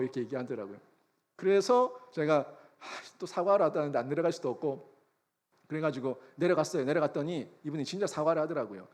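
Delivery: ordinary talk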